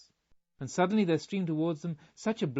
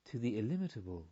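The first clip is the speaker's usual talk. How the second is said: softer, lower, far-away musing; dreamy echo of the phrase; dreamily; 5 semitones lower, 5 dB quieter than usual. A narrator's reading. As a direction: let the words drift away. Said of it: "repeated Varsity dreamily".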